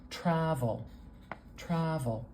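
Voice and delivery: "Travel" stressed on TRA, with a weak ending; stress on first syllable. Shown as a demonstration. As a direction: lean on the first syllable of "Travel", stretching it a little. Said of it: "a little more stress at the beginning".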